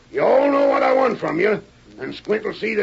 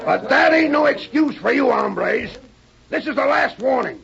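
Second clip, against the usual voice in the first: angry shout; 4 semitones higher than usual. Acted. Boss scolding gang.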